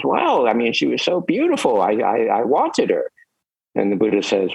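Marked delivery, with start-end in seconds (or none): 0.0-3.1 a lightly raised, sheepish confession; sheepish Ananda. Retold or imitated. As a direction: admit it a bit bashfully. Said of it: "He says".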